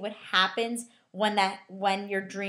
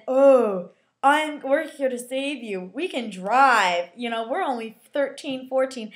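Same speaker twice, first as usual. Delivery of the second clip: mocking self-important kids; imitating pompous, bossy young teens; high and mighty; 3 semitones higher, 5 dB louder, slower than usual. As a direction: puff it up like a mock big shot. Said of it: "high and mighty".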